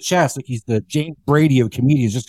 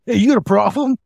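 tough guy challenge; 6 semitones higher than usual. Retold or imitated. Bike guy confronting the speaker.

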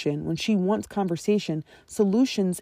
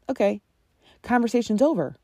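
deflated sigh; 3 semitones higher than usual. Retold or imitated. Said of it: "And it's like".

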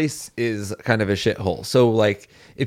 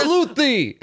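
high, pompous mock soldier cry; slower than usual. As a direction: salute like a silly soldier. Joins the army bit.

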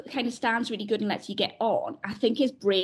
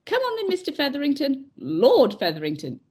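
lordly address; 4 semitones higher than usual. Retold or imitated. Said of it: "That in his voice".

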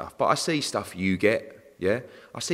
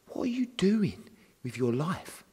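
whispered; 7 semitones higher, 4 dB quieter, slower than usual. Retold or imitated. Scolding the persistent fan caller.

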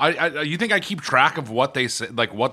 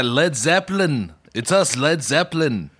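lightly British band-member accent; a faint, hard-to-place British accent; a British band. Shown as a demonstration. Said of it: "So you were doing a British accent".

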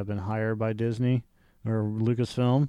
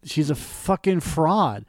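slow, deliberate blunt verdict; 5 semitones higher, slower than usual. Retold or imitated. Retelling his own comment, slow and blunt. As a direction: drag it out like a flat accusation. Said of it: "and I'm just like".

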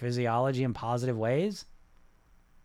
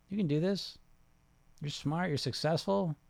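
calm reassurance; 3 semitones higher, 4 dB quieter than usual. Shown as a demonstration. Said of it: "I'm talking about relax".

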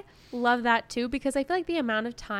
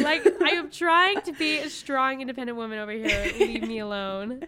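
laughing mock defiance. Joking indignation to her co-host.

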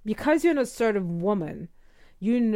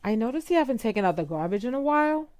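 uptalk; faster than usual. Shown as a demonstration. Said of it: "So you say".

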